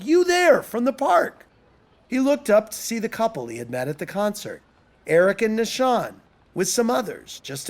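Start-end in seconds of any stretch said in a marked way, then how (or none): 0.0-1.4 high, loud hail; much higher, raised call. A narrator's reading. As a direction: call out to catch someone passing. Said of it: "someone suddenly called".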